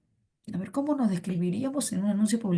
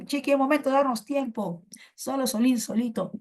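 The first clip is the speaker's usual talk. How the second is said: crazy teacher; 5 semitones higher than usual. Retold or imitated. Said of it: "tu profe entra en locura".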